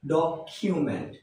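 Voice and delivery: "ডকুমেন্ট" said as "dok-kyu-ment"; correct pronunciation. Shown as a demonstration. Teacher giving learners the proper form, "ডকুমেন্ট" as dok-kyu-ment. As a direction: say "ডকুমেন্ট" with an aspirated "kyu" in the middle. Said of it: "কি হবে?".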